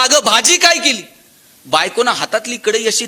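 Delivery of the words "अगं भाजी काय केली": loud, high mock yell; husband yelling right behind his wife; जोरात ओरडणे. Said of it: "आणि जोरात ओरडला". (जोरात ओरडत विचारणे)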